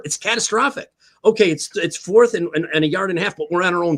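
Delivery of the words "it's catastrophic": catastrophic leaned on hard, the key word; stress on catastrophic. Real, not acted. Fired-up analyst stressing catastrophic to his co-hosts. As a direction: land the word catastrophic like a verdict. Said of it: "it's cata-, that's the word".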